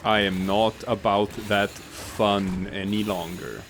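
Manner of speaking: slow, droning monotone voice. Pretend. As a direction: drone it out, bored and flat. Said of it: "talking in a very droning, monotone voice".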